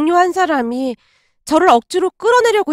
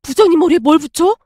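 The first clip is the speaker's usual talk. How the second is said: fast, louder incredulous "부장님 머리에 뭘 붙여?" rising at the end; "부장님" stressed in a stunned rising question; shocked disbelief; 3 dB louder, faster than usual. Retold or imitated. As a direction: blurt it out in alarm, rising on "붙여".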